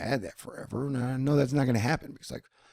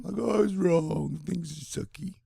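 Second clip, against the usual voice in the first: mock crying; 6 semitones higher, slower than usual. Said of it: "I will be crying".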